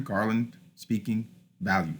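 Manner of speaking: "garland", "speaking", "value", each stressed then unstressed; trochaic stress. Shown as a demonstration. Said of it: "words that follow the trochaic pattern".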